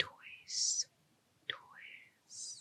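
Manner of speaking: soft, barely voiced whisper. Testing whether the listener can hear soft words, whispering. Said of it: "so I'm gonna do whisper some words".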